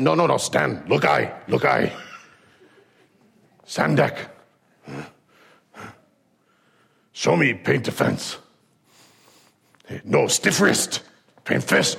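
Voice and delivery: put-on broken-English old master, slow and breathy; Miyagi. Miyagi drills Daniel's moves, slow breathy master voice. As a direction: drill the boy like a stern old sensei. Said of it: "you hear Miyagi go".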